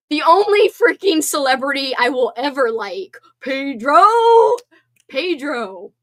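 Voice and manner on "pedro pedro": loud, rising call of his name; fangirl squeal. Real, not acted. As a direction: gush over him like a fan. Gushing over favourite celebrity.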